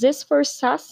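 choking mid-sentence, stumbling on words. Real, not acted. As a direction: voice catching as throat chokes. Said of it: "Nossa, me engasguei aqui".

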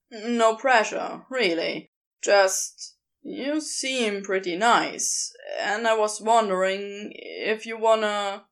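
casual, a touch sly; lightly voiced Crowley.

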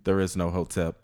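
low, soft menacing villain; deep villain voice. Acted. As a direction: announce yourself like a dark overlord. Villain voice continues.

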